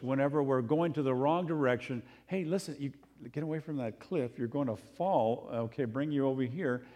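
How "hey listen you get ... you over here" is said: gentle warning. Retold or imitated. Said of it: "in gentleness".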